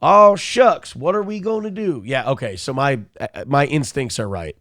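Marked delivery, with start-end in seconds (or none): 0.0-2.0 mock fake outrage. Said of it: "He's like".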